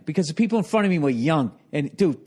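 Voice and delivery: ordinary talk, nothing marked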